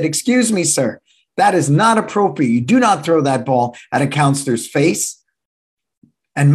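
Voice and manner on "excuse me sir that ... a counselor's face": put-on firm, raised scolding of a child; stern voice. Instructor scolding a boy who hit a counselor, stern. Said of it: "with a stern voice".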